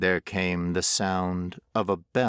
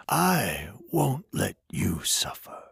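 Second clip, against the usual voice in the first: whispered promise. A narrator's reading. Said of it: "the stranger said".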